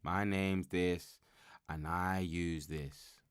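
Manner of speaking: slow mock addiction-meeting intro; a light imitation of a recovery meeting share; meeting introduction. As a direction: drag it out like a support group opener.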